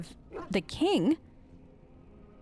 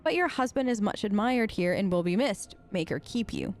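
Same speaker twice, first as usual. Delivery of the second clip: put-on lightly formal narration of an old letter; letter read aloud. A narrator's reading. Reads a found letter aloud.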